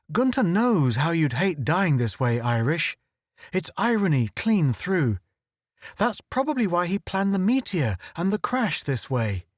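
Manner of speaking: a nervous, quick-witted photographer talking; Click's voice. Acted.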